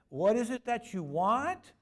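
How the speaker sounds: high, loud and slow, coldly demanding; mock-stern parish secretary; curt secretary. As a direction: play the gatekeeper who resents being asked. Secretary voiced curtly to ladies.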